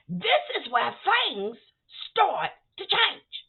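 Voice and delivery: slow, drawn-out build-up; slow teasing build to the twist; dramatic slowdown. Real, not acted. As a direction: stretch it out for suspense. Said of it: "This is where things get interesting".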